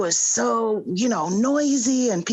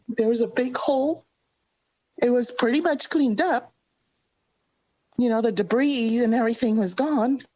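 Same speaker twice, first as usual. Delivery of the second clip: teary-eyed; 3 semitones higher than usual. Real, not acted. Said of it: "I'm getting teary-eyed".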